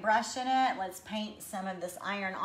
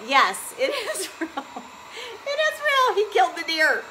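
laughing through the words, pitch jumping up high; giggling as she admits the skull is real; 11 semitones higher, 6 dB louder than usual. Real, not acted. To viewers asking about the skull, laughing.

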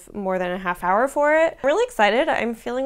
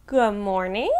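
spooky voice. Acted. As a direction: greet them like a ghost. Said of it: "I kinda said that in my spooky voice".

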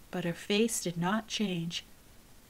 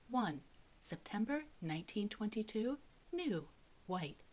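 softer, measured reading of each entry; hushed list reading; 11 dB quieter than usual. A narrator's reading. Narrator reading the book's chart entries, hushed. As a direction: quietly tick through the record.

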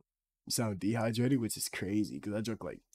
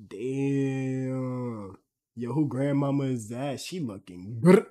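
cracking, higher, louder voice; 5 semitones higher, 9 dB louder, much slower than usual. Real, not acted. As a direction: let the voice crack up high. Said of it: "why did my good sound like that".

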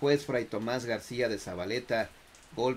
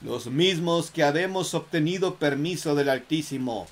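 solemn dead friar; 3 semitones higher, 5 dB louder than usual. Acted. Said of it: "señaló el cadáver".

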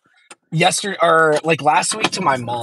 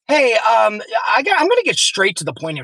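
pissed mom; 5 semitones higher than usual. Retold or imitated. Mom calls the neighbor to confront him, retold as pissed. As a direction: imitate a mom confronting someone by phone. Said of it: "'cause she's pissed".

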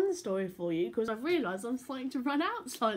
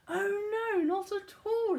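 emphatic denial; 12 semitones higher, 4 dB louder, slower than usual. Acted.

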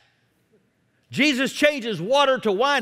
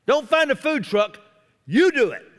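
Jesus commanding; 4 semitones higher than usual. Retold or imitated. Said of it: "Jesus was being very specific".

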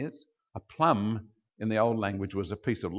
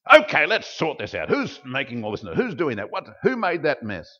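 louder scolding parent voice; cranky parent; 4 dB louder than usual. Retold or imitated. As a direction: step in and sort out the noisy kids. Parent scolding noisy children.

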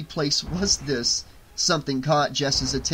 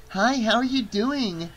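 high, cheery greeting; chirpy and high-pitched; bright; 8 semitones higher than usual. A narrator's reading. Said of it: "asked Amber brightly".

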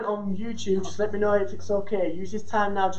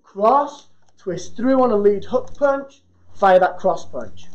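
slow demo walkthrough; much slower than usual. Shown as a demonstration. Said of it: "we're in our boxing stance just here".

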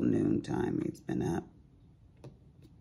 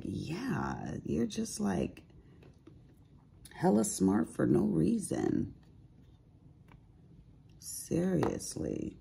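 high impressed; 8 semitones higher, slower than usual. Retold or imitated. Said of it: "I'm like".

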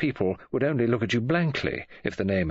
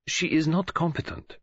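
grave detective; 8 semitones higher than usual. Acted.

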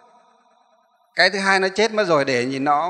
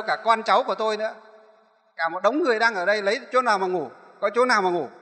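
higher-pitched reproachful complaint, voicing the spirit; possessed woman scolding; 4 semitones higher than usual. Monk voicing the possessed woman berating him, higher and reproachful. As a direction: whine at the monk as the homeless spirit. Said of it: "Nó bảo là chửi đấy".

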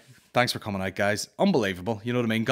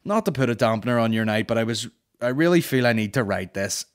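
quoting a complainer; 4 dB louder than usual. Retold or imitated. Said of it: "this woman who said".

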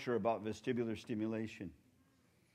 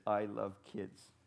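slow read; 5 semitones lower, 5 dB quieter, much slower than usual. Shown as a demonstration. Reading mom's badge slowly.

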